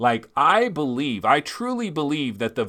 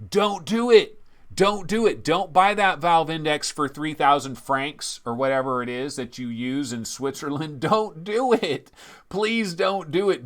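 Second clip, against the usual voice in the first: emphatic plea, pitched up on each warning; urgent pleading. Real, not acted. Host warns viewers off scalpers, urgent pleading. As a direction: beg them to hold back.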